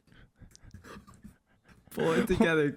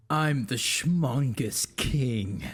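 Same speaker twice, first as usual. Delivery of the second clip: deep character voice; 2 semitones lower, slower than usual. Acted. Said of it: "That's not his voice".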